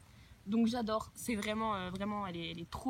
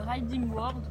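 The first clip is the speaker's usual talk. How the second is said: slow Riding World with a French accent; French accent on the English brand name; 4 dB louder, slower than usual. Real, not acted. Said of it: "oubliez mon accent pourri".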